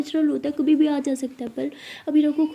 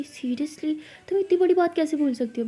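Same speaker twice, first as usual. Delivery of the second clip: higher, incredulous scolding; shocked disbelief; 4 semitones higher than usual. Acted. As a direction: react as if you can't believe it. Sister shocked she forgot the result.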